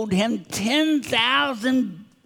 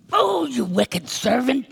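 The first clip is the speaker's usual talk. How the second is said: raised-pitch acted scolding; angry rebuke; 4 semitones higher than usual. Master calls the servant in, mildly angry rebuke. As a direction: scold with mild mock anger. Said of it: "In anger".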